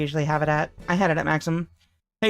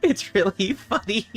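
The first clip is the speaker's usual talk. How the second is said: laughing; 3 semitones higher than usual. Real, not acted. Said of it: "I can't stop smiling".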